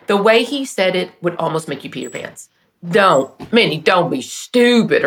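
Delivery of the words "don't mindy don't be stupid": slow teasing Southern American accent, imitating her husband; fond mock Southern drawl. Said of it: "He had a slow Southern accent".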